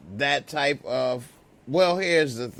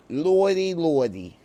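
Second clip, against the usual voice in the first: mock New York exclamation; mock New York accent; 3 semitones higher, 3 dB louder than usual. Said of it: "That's how we say it where I'm not from".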